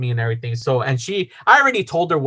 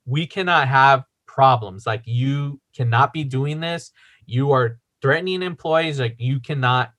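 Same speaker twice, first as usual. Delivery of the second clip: imitating stern boss; 5 semitones lower, 3 dB quieter than usual. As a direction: lay down the rules word by word, imitating a boss. Boss reprimands man in retold story.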